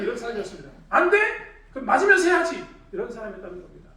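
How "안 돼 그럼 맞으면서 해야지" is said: acted loud, high-pitched telling-off; threatening scolding. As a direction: shout it like an impatient taskmaster. 예전의 다그치던 자신을 재연. (윽박지르며 호통치듯)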